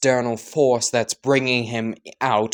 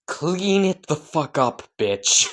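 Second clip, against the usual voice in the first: drawn-out mock angry command, higher; slow drunk order; 4 semitones higher, slower than usual. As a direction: lean into a sloppy drunk demand. Drunk father orders daughter.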